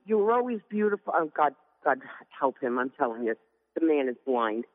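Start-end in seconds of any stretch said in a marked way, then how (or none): 0.1-1.1 quick, lightly voiced husband line, a bit higher; husband quoted. Wife quoting her husband's compliment, lightly imitating him. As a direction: rattle off his compliment. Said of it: "He goes".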